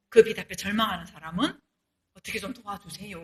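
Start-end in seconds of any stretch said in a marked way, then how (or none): 2.1-3.2 훨씬 작게 하는 간청; 애원하듯 조용히 부탁해; soft plea. Retold or imitated. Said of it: "이렇게 하잖아요". (작은 목소리로 도움을 청하는 절망한 사람)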